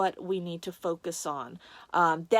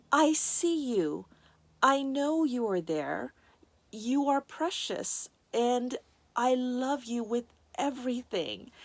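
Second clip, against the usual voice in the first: peaceful, loving; 3 semitones higher than usual. Retold or imitated. Voicing the love they felt in despair, tenderly. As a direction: voice a loving presence, unhurried and slightly raised in pitch. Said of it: "that feeling was just so peaceful and so loving".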